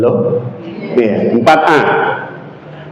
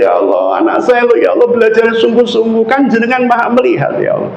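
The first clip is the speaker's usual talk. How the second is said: put-on high, fast pleading mother praying for her child; imitating an anxious mother's high pleading prayer; tearful mother's prayer; 6 semitones higher than usual. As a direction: beg God like a mother on the verge of tears, pitched high. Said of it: "sampai nangis-nangis".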